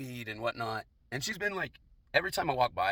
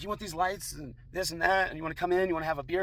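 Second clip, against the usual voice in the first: lightly mimicked, higher female voice; imitated woman; 6 semitones higher than usual. Neighbor offering lights and beer, high mimicking voice. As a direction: mimic her offers in a raised pitch.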